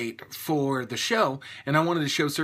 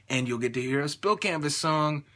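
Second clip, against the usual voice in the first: understated, not very excited; unenthusiastic; 3 dB quieter than usual. Real, not acted. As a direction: say it with little excitement. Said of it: "I sound so excited".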